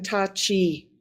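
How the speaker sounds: slow, tentative Tachi; careful attempt at an unfamiliar Navajo name; butchered clan name. Real, not acted. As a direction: sound out Tachi slowly and unsurely. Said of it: "I'm so sorry for butchering that".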